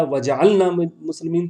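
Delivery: وجعلنا as wa-ja-'al-na, ل without vowel; mistaken reading. Shown as a demonstration. Teacher showing a hurried slip, وجعلنا with vowelless ل. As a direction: drop the vowel after ل in وجعلنا. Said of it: "اگر غلطی سے ہڑبڑی تھی".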